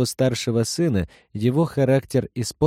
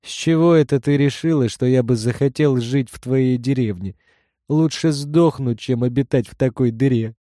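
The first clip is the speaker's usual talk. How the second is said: wild unhinged ranting; 3 semitones higher than usual. Acted. Son mocks mother's village.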